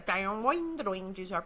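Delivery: springy voiced boings; jaw harp imitation. Describing the romantic music, twanging jaw harp imitation. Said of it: "with the jaw harp is just classic".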